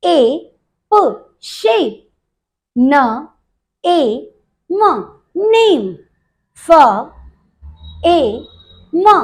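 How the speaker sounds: slowly built up, प then शेप; very slow demonstration of शेप; sound by sound. Shown as a demonstration. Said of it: "एसएच से बनता है श".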